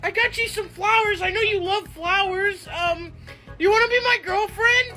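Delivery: shy stammering ask; nervous stammer. Acted. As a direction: stumble over the words nervously.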